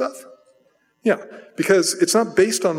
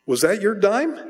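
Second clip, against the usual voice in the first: stern dad; 6 semitones higher than usual. Retold or imitated. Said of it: "And he goes".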